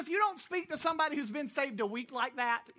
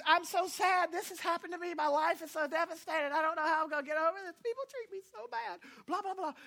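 mocking whiny post; 5 semitones higher than usual. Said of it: "I'm not mocking you".

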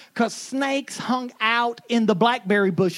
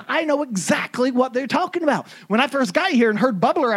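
ordinary talk, nothing marked

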